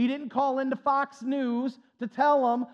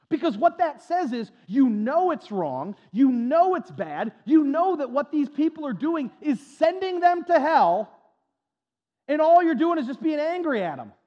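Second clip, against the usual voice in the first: louder, pressing each phrase harder; building preaching shout; 5 semitones higher, 6 dB louder than usual. Real, not acted. Preacher to his congregation, rising to a forceful shout. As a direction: drive it home to the congregation.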